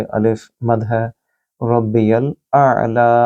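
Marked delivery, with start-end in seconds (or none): 1.6-3.3 आला with a throaty ain and a long ला; slow recitation, final vowel held; tajweed recitation. Shown as a demonstration. Teacher demonstrating the prostration phrase, slow recitation. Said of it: "आइन को गले से बोलिए".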